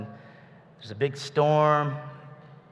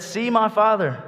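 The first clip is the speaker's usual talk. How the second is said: high, loud call across a distance; yelling across; 9 semitones higher, 7 dB louder than usual. Retold or imitated. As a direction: shout it to him from the cave. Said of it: "He was yelling at him".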